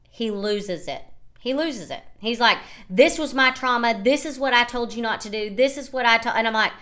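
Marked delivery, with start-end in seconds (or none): 2.9-6.4 higher-pitched, insistent protest; retold upset outburst. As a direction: imitate a boyfriend losing it. Acted upset boyfriend losing it.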